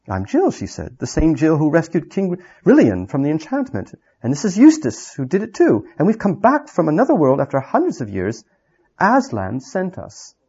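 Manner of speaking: lightly voiced girl. Jill introduces herself.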